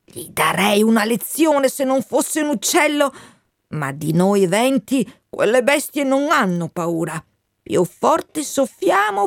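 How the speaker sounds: a proud wind, resigned then sending him home. Acted. Il vento Matteo parla a Benvenuto. (vento Matteo che parla al ragazzo, voce più acuta)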